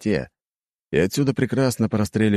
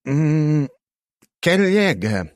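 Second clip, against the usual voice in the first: put-on high, creaky very old man; 9 semitones higher, 4 dB louder, much slower than usual. A narrator's reading. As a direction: speak as a frail old wizard. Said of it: "позади послышался старческий голос".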